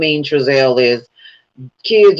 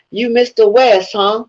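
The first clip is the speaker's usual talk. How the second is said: mock inmate; 7 semitones higher than usual. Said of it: "happy to see Trezelle".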